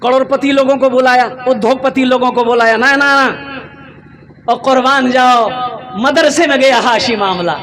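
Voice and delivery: stirring preacher building up the tale; impassioned preaching. Acted. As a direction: tell it with rousing wonder. Preaches at full force.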